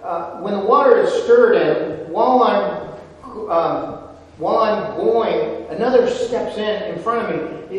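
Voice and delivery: lightly voiced invalid making excuses to Jesus; sick man pleading. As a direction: complain like the helpless invalid. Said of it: "The sick man answered him".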